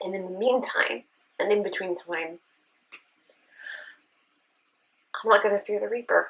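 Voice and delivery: emotional, close to tears, choking up, struggling. Telling a personal story about illness, emotional and choking up. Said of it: "Sorry. Really hoping I could get through this without, like, being super emotional".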